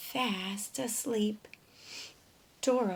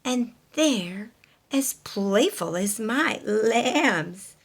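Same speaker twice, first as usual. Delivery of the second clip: sheep voice; 6 dB louder, slower than usual. Acted. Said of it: "bawed Sally".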